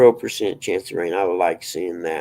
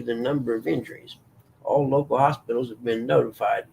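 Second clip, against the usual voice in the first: casual news read. Acted. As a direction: read a news article aloud, measured. Reads a news report aloud.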